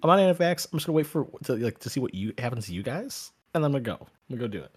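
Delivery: high, loud insistence; emphatic. Real, not acted. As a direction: insist loudly, pitch up. Emphatic loud self-defense.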